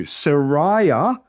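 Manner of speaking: "Sariah" measured out as suh-rai-ah; syllable by syllable. Shown as a demonstration. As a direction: model "Sariah" with a separate final "ah". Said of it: "the names as one syllable at a time".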